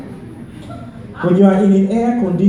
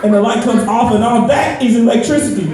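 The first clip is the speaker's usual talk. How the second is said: higher, impatient explaining; exasperated explanation; 6 semitones higher than usual. Retold or imitated. Annoyed collector explaining electricity over the phone, exasperated. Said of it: "This one girl got mad".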